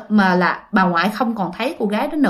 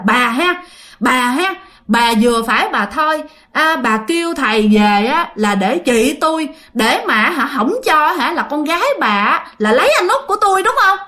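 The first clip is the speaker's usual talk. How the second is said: put-on possessed man berates the old woman, angry accusing voice; angry accusation; 3 semitones higher than usual. Possessed Út scolds great-grandmother.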